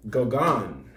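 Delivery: Gauguin said as "go-GAHN"; pronunciation demo. Shown as a demonstration. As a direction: sound out Gauguin clearly, "go-gahn". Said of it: "it's pronounced".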